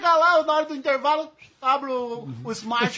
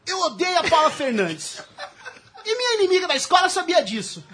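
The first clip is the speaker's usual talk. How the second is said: lightly voiced teenage girl; man doing a woman's voice. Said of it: "Com essa voz aí".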